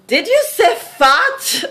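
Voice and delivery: the amused man from the audience checking a word; puzzled guy, laughing. Retold or imitated. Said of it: "And the guy was like".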